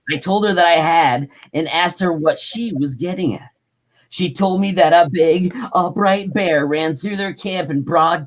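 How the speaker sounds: projected, deliberate account reading; story read-aloud. A narrator's reading. Host reading about tracks and yells, story read-aloud.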